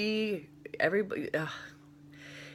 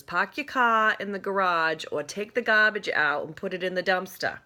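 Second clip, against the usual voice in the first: put-on dropped-r New England accent, a bit louder; Rhode Island accent; 3 semitones higher, 5 dB louder than usual. Mom quoted in her broad Rhode Island accent. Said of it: "an amazing New England slash Rhode Island accent".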